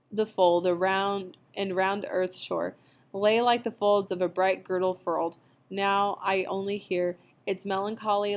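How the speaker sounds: measured, solemn recitation; poem reading. A narrator's reading.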